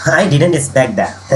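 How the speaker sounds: happily surprised, slow and drawn out; slow, pleased delivery; happy. Shown as a demonstration. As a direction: say it as pleasant news. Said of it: "अगर happy में".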